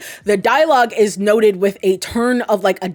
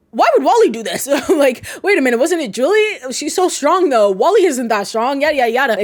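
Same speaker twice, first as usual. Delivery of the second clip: higher confused musing; 5 semitones higher than usual. Retold or imitated. Frank's confused inner thoughts.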